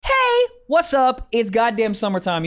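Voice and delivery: drawn-out hype-man opener; big, showy promo kickoff; hyped ad intro. Acted. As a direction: stretch the key words like a pitchman. Hyped-up opening of ad read.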